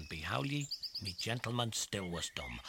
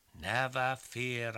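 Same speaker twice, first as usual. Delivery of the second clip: reassuring; 5 dB louder, much slower than usual. Acted. Tom reassuring.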